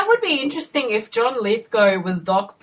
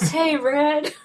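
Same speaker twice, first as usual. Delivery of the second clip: Tim Robbins movie line; 9 semitones higher than usual. Retold or imitated. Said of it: "I don't remember his lines in the movie".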